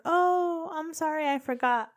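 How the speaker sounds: high, sheepish apology; mom voice. Retold or imitated. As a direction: play mom, light and sorry.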